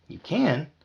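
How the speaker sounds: high startled question; surprised. Acted. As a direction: gasp it in disbelief. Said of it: "I was so surprised".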